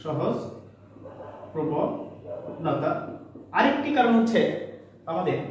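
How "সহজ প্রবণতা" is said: slow dictation. Shown as a demonstration. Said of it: "teacher drags out key phrase".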